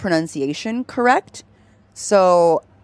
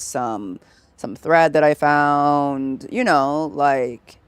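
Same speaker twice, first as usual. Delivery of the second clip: lower, relaxed, unexcited chatter; comfortable low voice; 3 semitones lower than usual. Shown as a demonstration. Streamer shows chat her comfortable voice, low and relaxed. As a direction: settle into her natural low register. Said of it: "it would be more like".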